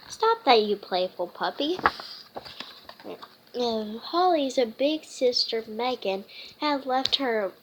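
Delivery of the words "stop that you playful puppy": scolding. Acted. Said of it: "said Dad".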